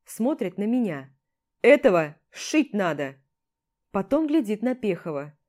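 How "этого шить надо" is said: barked order. Acted. Commander ordering stitches.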